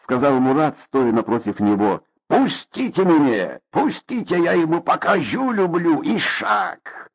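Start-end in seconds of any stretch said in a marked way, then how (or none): 2.3-7.1 high furious cries, held back; raging. Acted. Father rages at his son while restrained. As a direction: strain against their grip, yelling.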